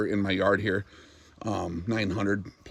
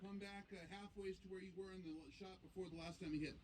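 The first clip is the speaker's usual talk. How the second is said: calm radio call for fire; 9 semitones higher, 27 dB quieter than usual. Real, not acted. Spotter calling corrections to shooter.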